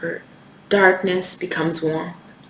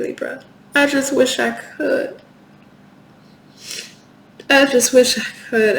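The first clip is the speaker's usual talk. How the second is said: raised, emotional voice close to crying; real tearful pleading; 6 semitones higher, 5 dB louder than usual. Real, not acted. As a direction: plead helplessly, fighting back tears. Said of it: "I haven't cried on a reading in months".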